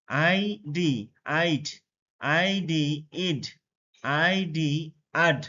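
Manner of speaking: teacher contrasting আইড, ইড and আড, d at the end; measured drill, pause before আইড, ইড and আড; combined pronunciation drill. Shown as a demonstration. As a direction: spell আইডি before each reading: আইড, ইড, আড with eye, ee, ah. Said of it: "সেগুলো একসাথে উচ্চারণ করব".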